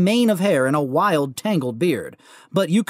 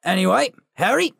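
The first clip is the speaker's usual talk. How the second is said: Hagrid voice; 3 semitones higher than usual. Acted. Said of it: "said the giant".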